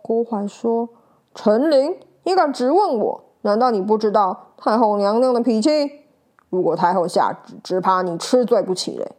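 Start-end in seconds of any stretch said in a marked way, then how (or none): 1.4-9.1 bristling, louder defiance; defiant threat. Acted. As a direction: threaten with the dowager's name. Eunuch threatens accuser.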